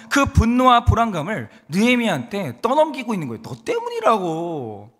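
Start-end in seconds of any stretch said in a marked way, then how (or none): 3.4-4.9 blaming. Retold or imitated. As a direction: throw the blame back. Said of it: "지금 이러고 있는 거예요".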